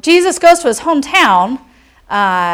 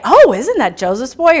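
put-on "Oh, isn't that Joseph's boy" with bouncing ups and downs; lilting remark, pitch swinging on "Joseph's boy"; varied inflection. Shown as a demonstration. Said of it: "the inflection is so interesting".

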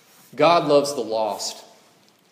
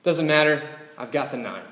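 shrugging it off. Pretend. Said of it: "shrug her shoulders and say".

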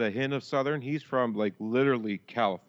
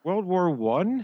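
incredulous; 8 semitones higher, 4 dB louder, much slower than usual. Real, not acted. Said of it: "No, they didn't".

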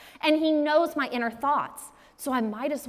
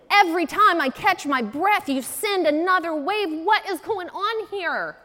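desperate outcry; 5 semitones higher, 3 dB louder than usual. Retold or imitated. Job crying out at waves.

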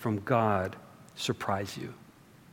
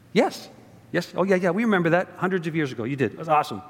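eager people; 2 semitones higher, faster than usual. Pretend. Preacher voicing Israel eagerly agreeing with God. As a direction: play the people gushing yes to God.

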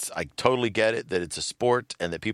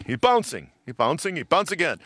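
higher-pitched mock play-by-play; imitated sports announcer; 10 semitones higher, 3 dB louder than usual. Reprising the commercial's announcer for laughs, mock commentary. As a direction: call each bounce with rising excitement. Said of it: "cut to him as an announcer".

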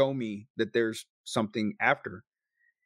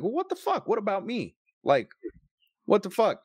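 much higher, hammed-up outrage; mock indignant outburst; 9 semitones higher than usual. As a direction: play the jealous son, half-joking. Retold jealous outburst at sister.

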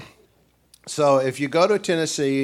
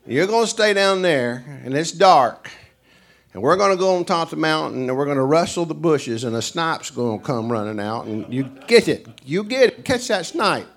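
excited snipe-hunt hosts; 5 semitones higher, 4 dB louder than usual. Retold or imitated. Hosts fooling guest, snipe hunt.

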